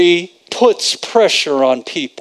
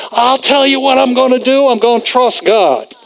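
high, raised cry of resolve; retold defiant yell; 7 semitones higher than usual. Preacher imitating Brother Hagin answering the voices, high defiant yell. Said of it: "he said, he yelled out".

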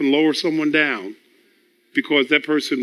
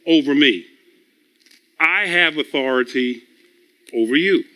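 laying down the law in measured, separate phrases; mildly stern, with deliberate pauses and firm key words; retold stern father. Father telling his sons who has authority, firm. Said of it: "I was talking like that to my sons".

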